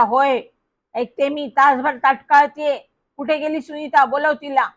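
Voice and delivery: put-on a sharp, impatient old lady on the phone; impatient crackling voice. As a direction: bark it down the line, fed up with waiting. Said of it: "तो receiver कडाडला". (फोनवर अधीर, चिडलेला आवाज)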